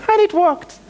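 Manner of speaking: laughing as the punchline lands; a real laugh through the words. Real, not acted.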